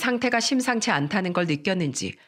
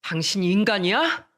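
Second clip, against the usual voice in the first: a mild retold angry rant, slightly raised; husband lightly acting out his rage at his wife; angry outburst; 2 semitones higher than usual. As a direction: scold her with restrained fury. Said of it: "바로 또 화를 냈어요".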